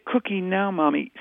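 put-on high toddler-style demand; baby talk. Shown as a demonstration. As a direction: mirror a little child's insistence. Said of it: "does it feel like baby talk?".

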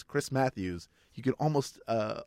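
usual speaking voice

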